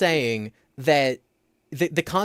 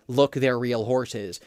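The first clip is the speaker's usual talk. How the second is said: deadpan; slower than usual. Shown as a demonstration. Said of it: "literally just going".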